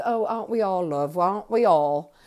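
sarcastic, scornful echo of a fan; mock sarcasm. Manager brushing off the singer's self-declared biggest fan, sarcastic. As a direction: put down the gushing fan with sarcasm.

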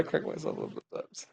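soft unvoiced whisper, fast; whispered aside. Real, not acted. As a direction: whisper it quickly to yourself. Whispered aside after laughing.

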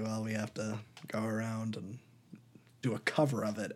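low, hushed whisper like a secret plan; conspiratorial whisper. Retold or imitated. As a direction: whisper it as if scheming. Imagined producers scheming about rights.

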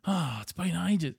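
acted slow, high, glad-to-see-you tone; hammed-up fond reunion; warm reunion greeting. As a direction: stretch it out, greeting a long-missed friend. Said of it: "that we really cared about".

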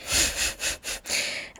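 soft, voiceless chuckle; soft laugh. Real, not acted. Laughs at her past plan.

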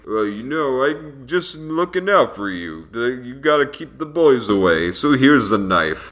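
lightly imitated Stallone-style mumbling accent; a loose, half-hearted Stallone accent; Sylvester Stallone accent. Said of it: "a good Sylvester Stallone accent".

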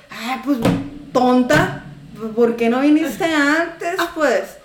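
snappy scolding mock retort. Vendor scolding a late customer, sharp mocking tone. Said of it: "se me sale de repente el tonito".

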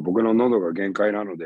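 strained, worn-out voice; voice giving out. Real, not acted. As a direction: talk through a tired throat.

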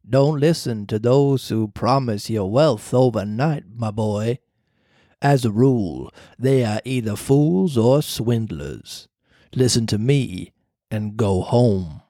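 low, slow ghostly cricket; slow low voice of a spirit; talking cricket voice. Acted. The cricket warns.

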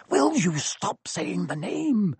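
slow, tense hiss; hissed fear. A narrator's reading. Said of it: "Ron hissed".

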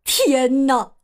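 slow, high wail of despair; chubby chick wailing in despair. A narrator's reading. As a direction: moan that they'll starve. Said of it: "绝望地说".

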